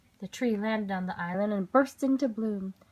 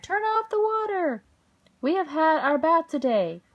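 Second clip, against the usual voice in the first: very high, loud neighbours; crying out; 7 semitones higher, 5 dB louder than usual. A narrator's reading. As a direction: yell over the flood.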